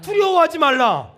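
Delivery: slow, booming pulpit command; loud proclamation. Real, not acted. Preacher leading congregation to repeat, loud proclamation. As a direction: call it out loud and drawn out.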